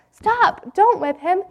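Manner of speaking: high pleading cry to stop him; boy cries out to the teacher, pleading. Acted. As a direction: burst in, begging him to stop. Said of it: "Jim cried out".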